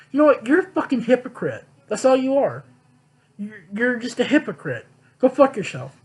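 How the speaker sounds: losing it. Retold or imitated. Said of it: "I literally lost it on this teacher".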